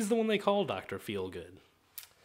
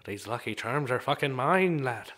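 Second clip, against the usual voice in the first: put-on Irish accent; 3 semitones lower than usual. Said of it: "that's my Irishman".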